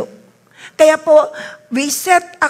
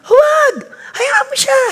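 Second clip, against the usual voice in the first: high, loud shout of no; loud forbidding; 12 semitones higher, 4 dB louder than usual. Real, not acted. Preacher forbids hushing grieving people, loud shout. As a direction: shout it down, let them cry.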